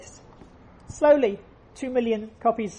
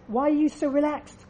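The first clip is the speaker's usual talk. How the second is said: higher, pressing, anxious questions; nervous flyer pestering the man beside him, higher pitched; agitated passenger; 4 semitones higher, 4 dB louder than usual. Retold or imitated. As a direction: fret at the calm neighbour. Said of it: "The, the agitated guy turns to him and says".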